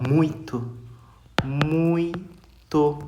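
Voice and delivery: muito drawn out with a nasal ui; slow nasal demo. Shown as a demonstration. Teacher demonstrating nasal muito, slowly. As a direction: let the ui of muito ring through the nose. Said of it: "Não tem como falar sem encostar".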